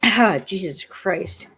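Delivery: slow, strained, still choking; coughing fit aftermath. Real, not acted. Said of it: "I'm sorry, I'm a mess".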